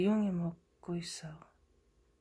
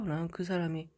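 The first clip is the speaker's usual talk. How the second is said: ordinary delivery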